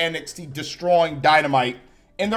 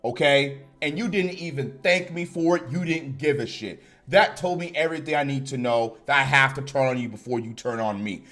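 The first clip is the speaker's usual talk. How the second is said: pretend Adam Cole promo; 3 semitones lower than usual. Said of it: "At least say something like that".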